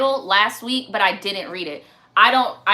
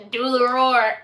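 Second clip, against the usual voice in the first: put-on demanding kid, amused; Shrek little boy; 3 dB louder, slower than usual. Host replaying the funny Shrek boy, demanding kid voice. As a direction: imitate the stubborn child's order. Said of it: "That's the voice that I imagine".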